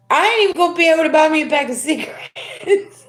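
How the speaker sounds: amused half-laughing complaint; laughing disbelief. Retold or imitated. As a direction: laugh at your own bad luck. Retelling own dismay, laughing.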